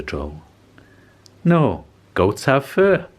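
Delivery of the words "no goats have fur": spider voice. Acted. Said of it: "said the spider".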